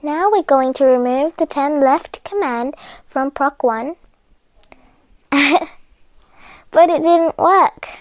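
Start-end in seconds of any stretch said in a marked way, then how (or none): 5.3-7.9 laughing. Real, not acted. Laughing at failed attempt.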